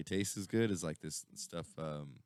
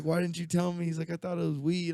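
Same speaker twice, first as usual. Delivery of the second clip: indignant friend; 13 semitones higher, 7 dB louder than usual. Retold or imitated.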